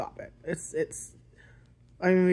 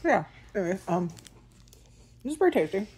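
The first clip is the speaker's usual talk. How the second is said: talking while chewing food; muffled words between bites; mouth full, chewing; faster than usual. Real, not acted. Seen 3: Lips closed and pursed, chin working between words; bar wrapper seen later.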